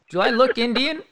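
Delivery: high, disbelieving question; incredulous question. Retold or imitated. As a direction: ask in mock disbelief. Asks the manager.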